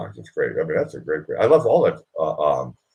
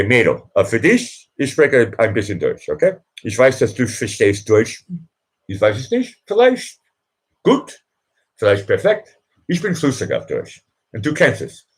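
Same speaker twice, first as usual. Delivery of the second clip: speaking German on request; 2 semitones higher than usual. Shown as a demonstration. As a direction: show off some German, light and teasing. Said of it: "for you, I'll do it".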